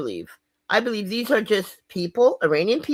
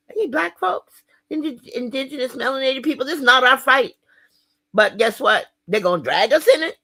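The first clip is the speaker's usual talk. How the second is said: loud rallying call; 6 semitones higher, 4 dB louder than usual. Real, not acted. Rallying address to black folks.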